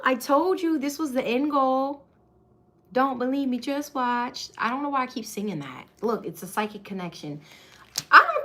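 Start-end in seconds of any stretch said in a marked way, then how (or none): none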